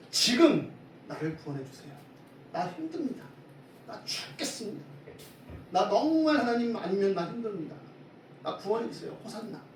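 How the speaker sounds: desperate plea. Acted. Preacher voicing a struggling believer begging God for rescue, mildly desperate plea. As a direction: plead as a worn-out believer crying to God. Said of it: "이 간절한 기도이자 외침인 거지요".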